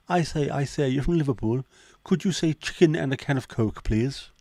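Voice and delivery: exaggerated high-pitched impersonation; Jimmy Carr. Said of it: "But you don't sound like Jimmy Carr".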